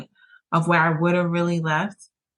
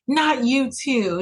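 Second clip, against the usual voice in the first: disappointed; 7 semitones higher, slower than usual. Retold or imitated. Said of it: "And I'm like".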